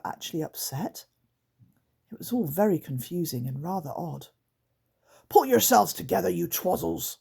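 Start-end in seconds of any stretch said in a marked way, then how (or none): 5.3-7.2 hissed scolding. Acted. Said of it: "hissed Grunt".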